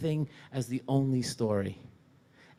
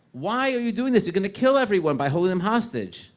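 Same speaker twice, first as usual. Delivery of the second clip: loud, high, urgent demand; urgent outcry; 6 semitones higher, 7 dB louder than usual. Retold or imitated. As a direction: confront the zealot leader at full voice. English retelling, same confrontation.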